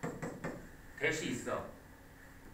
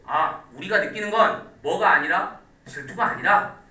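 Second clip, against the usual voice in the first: mock self-justifying; 3 dB louder than usual. Shown as a demonstration. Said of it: "이렇게".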